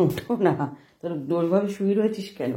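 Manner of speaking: loud scold from a mother; mother scolding her daughter for lying there, loud. Real, not acted.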